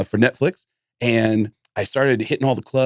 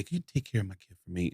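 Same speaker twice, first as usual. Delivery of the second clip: retold mom; 4 semitones lower, 13 dB quieter, faster than usual. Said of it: "Dave's mom would say".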